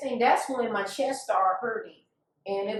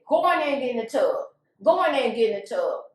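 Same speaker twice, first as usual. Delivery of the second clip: retold angry order; 4 dB louder, faster than usual. Slapping man orders her to tub.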